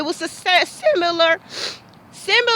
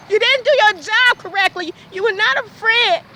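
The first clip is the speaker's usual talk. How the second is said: raised, furious voice at the officer; angry shouting; 4 semitones higher than usual. Real, not acted. Ranting at the officer who betrayed her, furious shout. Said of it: "I need to scream that out".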